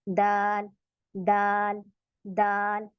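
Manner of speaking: दाल with tongue tip at the gum line of the upper teeth; dal demo. Shown as a demonstration. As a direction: repeat दाल slowly and clearly. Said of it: "तो ये है दाल". (दाल का सही उच्चारण)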